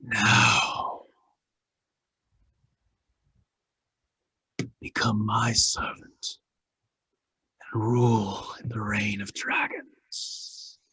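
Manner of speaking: slow, hushed, drawn-out villain voice; voice in the head. Acted. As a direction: intone it softly and slowly, as a mask luring a servant. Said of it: "you hear a voice in your head".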